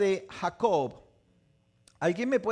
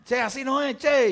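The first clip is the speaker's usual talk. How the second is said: lightly voiced friend; 8 semitones higher, 6 dB louder than usual. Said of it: "Me dice".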